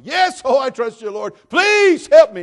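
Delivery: high, loud begging cry; desperate plea. Acted. Hanging man cries loudly up to God. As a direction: beg God at the top of your lungs.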